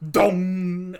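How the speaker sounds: drawn-out resonant "dong"; booming bell toll. Acted. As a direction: imitate a great bell tolling. GM imitates a loud bell toll.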